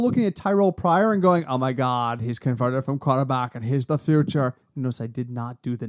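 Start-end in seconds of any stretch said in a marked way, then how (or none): 1.5-4.5 lightly voiced gushing Valley Girl; a hint of airy Valley Girl gush. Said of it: "you did Valley Girl voice".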